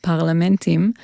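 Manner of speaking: parlamentim said as Hebrew, stress on the last syllable; Hebrew word. Shown as a demonstration. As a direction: parlamentim with Hebrew vowels, par-la-men-TIM. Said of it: "say it with an Israeli accent".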